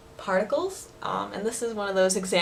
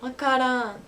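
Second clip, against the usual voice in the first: Osaka dialect; 3 semitones higher than usual. Shown as a demonstration.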